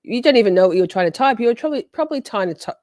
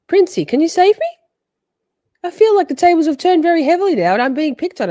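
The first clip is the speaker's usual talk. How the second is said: mock plea; 9 semitones higher, 5 dB louder than usual. Pleading playfully for rescue.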